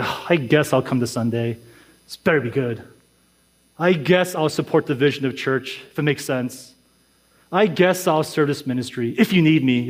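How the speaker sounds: mild, low-key mock grudging consent; reluctant attitude. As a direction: imitate someone half-heartedly agreeing to turn up. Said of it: "this attitude of like".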